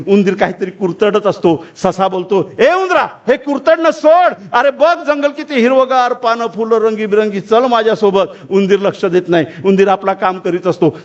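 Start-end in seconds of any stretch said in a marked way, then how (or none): 2.6-8.2 high call easing into eager persuasion; urgent coaxing rabbit. Acted. Rabbit calling the gnawing mouse to join him, urgent coaxing. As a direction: call out high, then coax.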